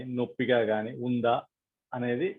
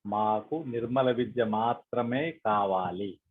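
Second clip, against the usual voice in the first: slow, measured prayer with long pauses; prayerful request, spaced out phrase by phrase; meditation prayer. Acted. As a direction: lead the group gently in an unhurried plea.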